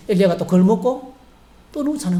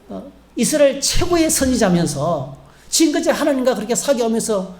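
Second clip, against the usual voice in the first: higher, scolding disbelief; incredulous rebuke; 6 semitones higher than usual. Pretend. God hypothetically scolding the prophet Elijah, incredulous and higher. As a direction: chide him as if amazed he still doesn't know.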